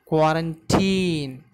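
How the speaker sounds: "Quarantine" said slowly, last syllable drawn out; demonstrated pronunciation. Shown as a demonstration. Teacher showing how to pronounce the word, slow "Quarantine". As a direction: model "Quarantine" slowly for learners. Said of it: "The pronunciation would be like this".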